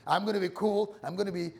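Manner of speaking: put-on American accent, announcing a resolution; mock American accent. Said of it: "that's my American, um, accent".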